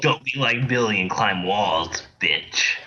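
slow announcer-style taunt; game ad mocking the kid; edgy ad voice. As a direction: sneer like a nineties ad.

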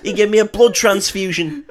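high, laughing put-on rant; mock ranting believer. A devout kid denied presents, high and laughing.

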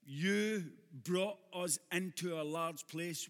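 very slow, each word weighed; slow emphatic re-read of the verse; slow savoring repeat. Shown as a demonstration. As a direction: linger over every word, letting it land.

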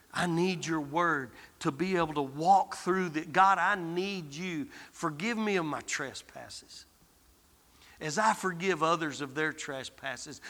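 hushed, humble plea; quiet prayer. Acted. Preacher praying for his listeners, softly humble.

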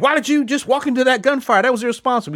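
a lightly voiced fed asking in disbelief; mock feds scolding. Feds question the sheriff for walking into gunfire, mock incredulous. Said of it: "the feds are like".

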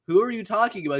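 high-pitched mock disbelief; incredulous retold question; acted bafflement. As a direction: imitate puzzled classmates pushing back. Baffled classmates, acted argument.

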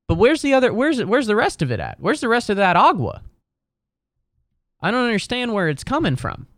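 high, baffled disbelief; really can't get it. Real, not acted. Baffled about water percentage.

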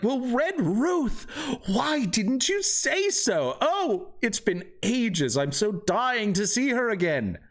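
high-pitched NPC thrilled to hear the name; excited shopkeeper voice. Acted. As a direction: gush like a delighted old friend.

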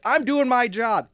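high, loud, slow mock whine; mock meter maid. Meter maid defending herself, high slow mock whine. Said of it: "kinda like being a meter maid".

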